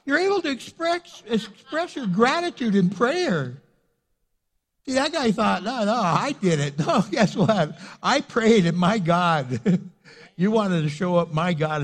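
loud, punchy sermon delivery; emphatic preaching. Acted. Pastor telling the church about answered prayer, emphatic preaching. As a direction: drive the point home to the congregation.

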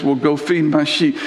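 firmly. Retold or imitated. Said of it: "a little bit more firmly".

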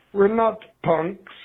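ordinary talk

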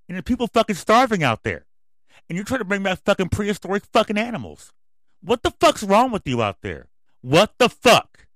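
loud, high furious shouting; real yelling. Real, not acted. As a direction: yell at them, truly pissed off. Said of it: "Yeah, I'm yelling".

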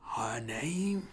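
slow, drawn-out announcer voice, a hush before the name; lightly mock a reverb-laden MC; booming announcer. A rapper introducing the queen bee, slow booming announcer. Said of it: "saying that all in that reverb".

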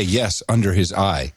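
like a solemn grim password; low deadpan retort. Shown as a demonstration. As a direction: drop low and flat on it. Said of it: "and you say".

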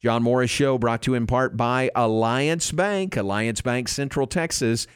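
upbeat sponsor read. Acted. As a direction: read the sponsor spot brightly. Live ad read by host.

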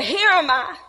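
crying out. Acted. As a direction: announce it boldly to the whole crowd. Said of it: "He cried out".

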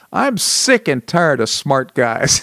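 slow, mildly angry imitation; mock angry outburst. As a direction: retell an angry blurt, drawn out. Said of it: "he blurted out".

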